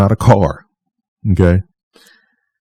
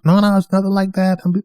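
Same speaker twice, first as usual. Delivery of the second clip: high mock voice of the employee brushing it off; imitating the clerk's high, defensive no; mock Bruce denial; 13 semitones higher than usual. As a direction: squeak out a fake innocent denial. Bruce denying, voiced by teller.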